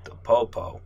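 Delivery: lightly voiced tough guy; a hint of a mob heavy; gangster voice. Georgie pressing the nervous detective, mild mobster voice. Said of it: "His voice is shifting right before our eyes".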